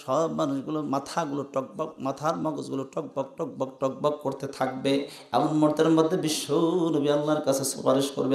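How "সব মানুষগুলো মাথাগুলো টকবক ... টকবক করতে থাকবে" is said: hushed dread. Acted. Hushed dread description of judgment.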